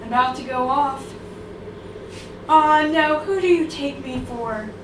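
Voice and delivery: indignant dog. Acted. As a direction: scoff like a picky dog. Dog refuses food in poem.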